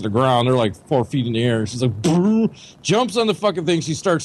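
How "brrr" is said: higher trilled whoosh; cartoonish rolled brrr; imitated leap noise. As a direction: trill a comic sound effect for a flying leap. Imitates her leap onto bed.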